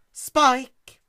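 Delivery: loud, high call. Acted. Twilight calling Spike from outside, loud. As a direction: call him from afar.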